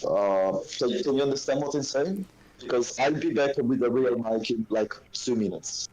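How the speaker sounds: crackling phone line; muffled, like underwater; bad phone mic. Real, not acted. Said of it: "it's a bit crackling and stuff".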